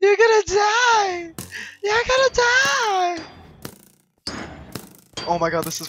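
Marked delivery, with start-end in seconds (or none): 0.0-3.2 mock threat. High mock threat repeated.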